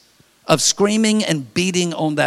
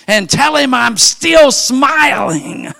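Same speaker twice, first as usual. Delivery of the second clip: put-on slow old man's message; 9 semitones higher, 5 dB louder, slower than usual.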